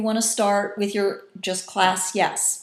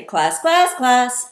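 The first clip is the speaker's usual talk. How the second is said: "class, class, class" loud, jumping up then down; three beats of "class", each on its own pitch; changing intonation; 5 semitones higher, 8 dB louder, much slower than usual. Shown as a demonstration. Teacher calling students with "class, class, class" on changing pitches. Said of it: "change the intonation of your voice".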